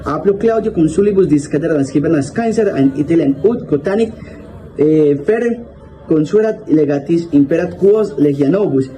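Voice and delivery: put-on careful reading of an old Latin text; reading Latin aloud. Shown as a demonstration. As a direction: read the Latin passage out, word by word. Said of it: "El texto dice". (lectura en voz alta de un texto latino)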